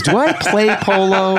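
drawn-out, wide-eyed polo question; Warren Beatty impression. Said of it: "he goes".

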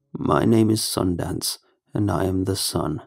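slow, eerie sun creature; slow creepy voice. Acted. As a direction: drawl it out like a creepy doll.

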